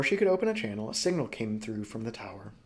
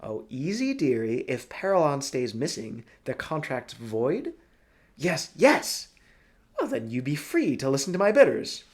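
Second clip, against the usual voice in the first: Broly character voice; 4 semitones higher, 6 dB louder than usual. Acted. Broly gushes to Helva about Niall, high and loud. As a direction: gush over the man as a theatrical old schemer.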